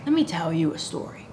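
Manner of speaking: low, soft, quick storyteller; hushed, smoky barfly voice; smoky tavern stranger. Acted. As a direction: lean in like a drunk with a tale to tell. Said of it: "Why is your voice so smoky".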